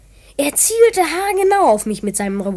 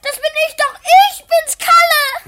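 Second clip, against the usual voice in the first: high, panicked pleading cry; frightened plea; 14 semitones higher, 4 dB louder than usual. Acted. Boy caught at gunpoint begs uncle not to shoot, frightened. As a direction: beg him not to shoot.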